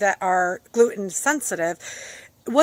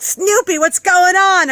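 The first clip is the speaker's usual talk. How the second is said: higher, louder call to a pet; puzzled dog owner; 9 semitones higher, 8 dB louder, slower than usual. Retold or imitated. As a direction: act out asking the dog what's wrong. Owner calling to howling dog.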